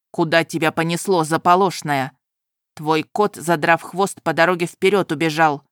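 put-on a sharp young nobleman lecturing her; stern young groom. Groom speaks.

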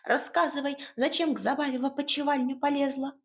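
a bustling little house spirit giving orders. Acted.

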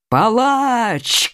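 long, accusing cry. A narrator's reading. Bereaved father accuses the killer, crying out. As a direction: cry out, stretching the word. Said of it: "крикнул Меркандон".

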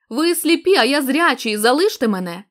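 strained cry. Acted. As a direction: shout it out, voice tearing. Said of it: "прозвучав надривно".

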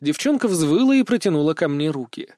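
ordinary delivery, nothing marked

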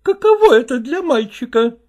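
high, nagging wife's voice, reproaching him; reproachful wife. Acted. Wife reproaching her husband over his new things, high and nagging.

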